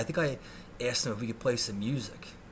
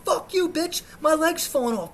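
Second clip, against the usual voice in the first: high, loud outraged shout; furious yelling; 6 dB louder than usual. Retold or imitated. Injured patient arguing with nurse, furious yell. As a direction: scream back in hammed-up fury.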